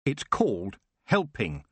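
slow, pointed reply; said with a pointed edge; a touch of tartness; smartly. Acted. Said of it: "Tiffany said smartly".

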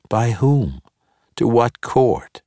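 high, slow mocking questions; sarcastic. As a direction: needle him with questions.

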